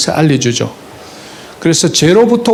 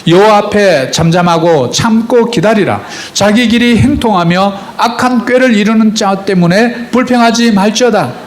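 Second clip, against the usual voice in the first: scripture read aloud; 4 semitones higher than usual. Shown as a demonstration. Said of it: "같이 한번 크게 읽습니다".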